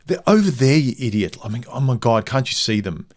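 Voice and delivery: mock-exasperated, long-suffering retort; exasperated wife. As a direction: act out exasperation at an idiot husband. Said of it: "her voice is just so exacerbated".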